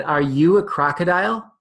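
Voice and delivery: lightly voiced excited young elephant; eager baby elephant. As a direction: play the curious baby elephant.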